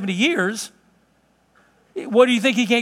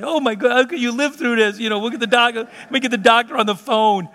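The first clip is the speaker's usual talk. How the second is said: hammed-up fussing; 4 semitones higher than usual. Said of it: "I made a big deal out of it".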